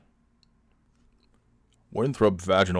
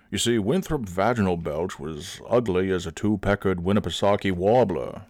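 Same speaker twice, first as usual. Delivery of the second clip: usual speaking voice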